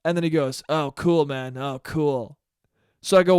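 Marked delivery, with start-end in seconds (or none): 0.7-2.4 unimpressed "Oh, cool," lightly imitated; mock-dismissive "cool"; lightly voiced bored guy. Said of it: "In that exact tone of voice".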